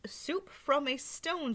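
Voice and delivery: put-on high, slow old lady. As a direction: linger on each word in wonder.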